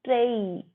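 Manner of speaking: 'ट्रेई' with a held glide from e to i; correct glide. Shown as a demonstration. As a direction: stretch 'ट्रेई' as tray-ee. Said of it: "ट्रेनिंग नहीं, ट्रेई".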